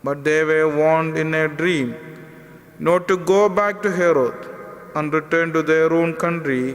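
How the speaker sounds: measured, solemn liturgical reading; gospel reading. Acted. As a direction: proclaim it like scripture at Mass. Priest proclaims the gospel reading.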